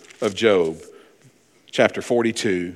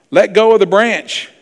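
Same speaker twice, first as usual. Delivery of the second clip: calm command from God; 8 semitones higher, 7 dB louder than usual. Retold or imitated. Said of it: "joke, God's instruction".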